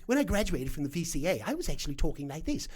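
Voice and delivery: put-on a touch of affected Anglo-Australian accent. Young actor fresh from the VCA, put-on Anglo accent. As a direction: imitate your over-trained Anglicised accent. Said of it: "completely gone over to the Anglo-Saxon side".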